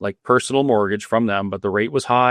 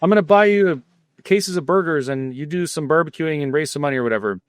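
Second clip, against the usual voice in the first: lightly voiced Swiss accent, higher, laughing at the start; a failed try at a Swiss accent, raised voice; mock Swiss accent; 4 semitones higher than usual. Retelling the Swiss donor's offer of help, weak mock Swiss accent. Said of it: "I can't do a Swiss accent".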